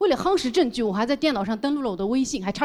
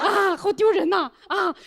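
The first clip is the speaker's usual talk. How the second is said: embarrassed; 7 semitones higher, slower than usual. Real, not acted.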